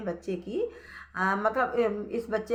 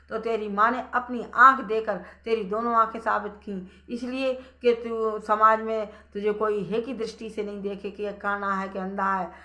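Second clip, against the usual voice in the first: stern explanation; 6 dB louder than usual. Acted. Elders explain to the son.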